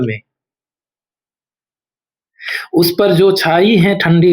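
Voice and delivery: measured, expressive Hindi poetry reading; solemn verse recital with deliberate pauses; poem recitation. Acted. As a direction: recite it line by line, sustaining the phrases and pausing between them.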